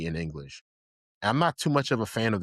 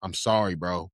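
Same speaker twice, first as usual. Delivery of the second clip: deadly serious, controlled ultimatum; Mikasa. Retold or imitated. Imitating an ultimatum to Krista, deadly serious and calm. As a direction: talk without yelling, but mean it. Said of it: "she was deadly serious".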